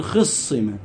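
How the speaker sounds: خصمة said "khissima", i after kh and doubled s; short i on the first letter of خصمة, s held double; kasra on the khaa. Shown as a demonstration. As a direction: say خصمة as khis-si-ma. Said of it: "وتكسر الخاء".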